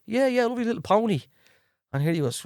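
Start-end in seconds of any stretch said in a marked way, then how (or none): 0.1-1.2 high, airy imitation of himself; retelling his bluff to the director in a much higher voice; mock breezy bluff. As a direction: play it sweetly innocent, pitched much higher. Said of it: "And I goes".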